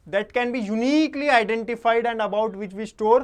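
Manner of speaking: measured, loud dictation leaning on "uniquely"; emphatic definition reading. Real, not acted. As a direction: read it out deliberately, drawing out "uniquely" with force. Rereads key definition emphatically.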